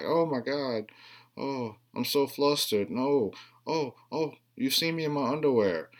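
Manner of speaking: high, breathless mock girly fluster; mock flustered girl. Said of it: "she's like".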